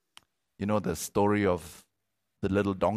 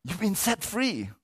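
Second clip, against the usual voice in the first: much higher, ringing proclamation; preached proclamation; 11 semitones higher than usual. Real, not acted. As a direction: declare it to the congregation.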